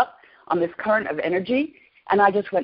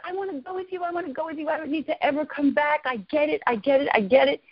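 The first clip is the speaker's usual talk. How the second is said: retold longing plea; 7 semitones higher than usual. Pleading to leave with the voice.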